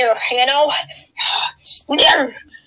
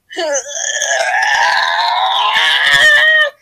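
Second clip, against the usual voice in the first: drawn-out wail; 5 dB louder than usual. Acted. Long drawn cry after gross skit.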